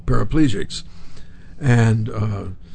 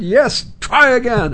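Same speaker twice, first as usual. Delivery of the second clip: mock urging; 11 semitones higher, 5 dB louder, slower than usual. Woman urging Brando on.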